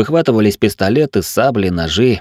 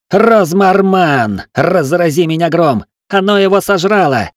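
high, loud, terrified outcry; panicked shouting; 8 semitones higher, 4 dB louder than usual. A narrator's reading. Gunner sees the body swallowed, panicked shouting.

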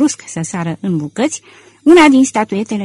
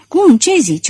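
high, louder outburst; incredulous yell; 7 semitones higher, 5 dB louder than usual. A narrator's reading. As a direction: yell the question in disbelief. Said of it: "urlă domnul Filăl".

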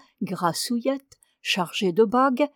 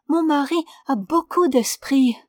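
breathy whispered woman's voice, louder and higher; hushed proud aside; penitent wife, proud smile; 5 semitones higher, 4 dB louder than usual. A narrator's reading. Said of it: "avec un petit sourire imperceptible".

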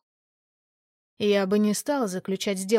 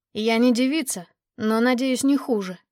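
blurted out; 4 dB louder than usual. Acted. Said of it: "выпалил я".

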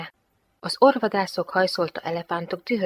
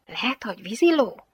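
musing, higher-pitched guess; pondering; 4 semitones higher than usual. Acted. Girl guesses what the creature at her feet is, pondering. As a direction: wonder it aloud. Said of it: "töprengett a lány".

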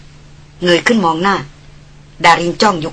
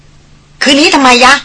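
higher, louder, slow mock demand; playful taunt; 7 semitones higher, 4 dB louder, much slower than usual. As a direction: egg him on teasingly. Darin teasing. (ดารินแหย่ถามเสียงสูงดัง)

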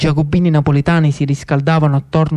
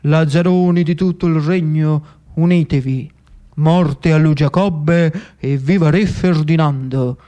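a hint of a rousing cardinal's proclamation; rally the mob from the pulpit; cardinale Ruffo proclaiming. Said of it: "disse il cardinale Ruffo". (il cardinale chiama a raccolta i lazzaroni, proclama solenne)

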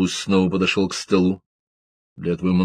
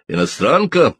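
sudden sharp bark, higher; barked question; 6 semitones higher, 3 dB louder than usual. A narrator's reading. Rebus barks at the suspect, sudden sharp bark. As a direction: bark it out at the young man. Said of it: "неожиданно рявкнул Ребус".

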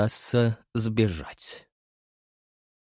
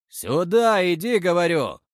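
raised, insistent call; 8 semitones higher, 4 dB louder than usual. A narrator's reading. Thug repeats his order to the boy, loud and insistent. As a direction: demand he come back now.

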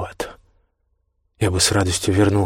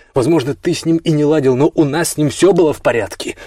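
heated anger; 6 semitones higher, 4 dB louder than usual. Acted. Jace defends bond with Liam.

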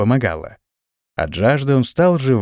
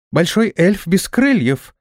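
slow, higher-pitched astonishment; surprised; 6 semitones higher, slower than usual. A narrator's reading. Tiny flying girl spots a wingless stranger, surprised. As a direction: voice a tiny creature's wonder, slowly. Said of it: "удивлённо проговорила".

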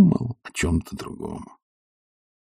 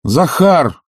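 call out; 7 semitones higher than usual. Acted. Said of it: "Крикнул Обломов".

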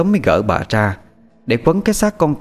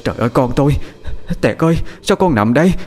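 acted anguished lament; wailing cry; 7 semitones higher than usual. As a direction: cry out over your dead child. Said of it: "Bà Năm la lên".

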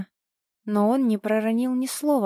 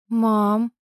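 muffled call; 4 dB louder than usual. Acted. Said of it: "послышался глухой голос".

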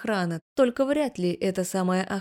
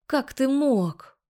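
slow, higher, breathless outrage; indignant gasp; 6 semitones higher, much slower than usual. A narrator's reading. Wife learning husband hid Lena's calls, shocked gasp. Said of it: "ахнула я, задыхаясь от возмущения".

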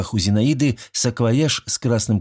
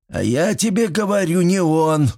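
insisting; 10 semitones higher than usual. A narrator's reading. Old man defending his grandson, stubbornly insisting. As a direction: dig in your heels. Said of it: "настаивал на своём Митрич".

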